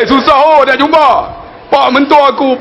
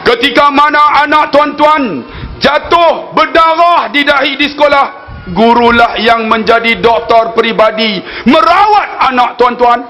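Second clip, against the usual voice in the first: khutbah oratory. Acted. Preacher re-enacting his Teachers' Day khutbah, formal oratory. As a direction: declaim it like a formal khutbah, drawing out the phrases.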